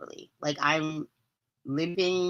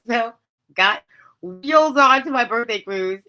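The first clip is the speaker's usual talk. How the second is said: ordinary talk, nothing marked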